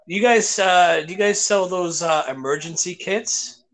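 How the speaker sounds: lightly imitated Jamaican customer; hesitant question with a Jamaican lilt; Jamaican accent. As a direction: ask in a put-on Jamaican accent. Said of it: "Jamaican guy".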